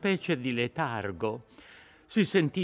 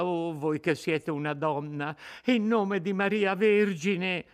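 desperate pleading; 6 semitones higher than usual. Acted. Terrified girl begs.

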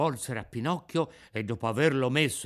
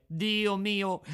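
despairing cry; 7 semitones higher than usual. A narrator's reading. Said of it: "continuava a piangere, a berciare".

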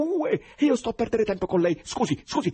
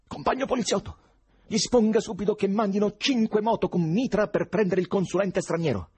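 acuto, forte, concitato; grido al telefono; 13 semitones higher, 7 dB louder than usual. A narrator's reading. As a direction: pretendi aiuto gridando nella cornetta. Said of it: "gridò Ivan al telefono". (gridato, perentorio)

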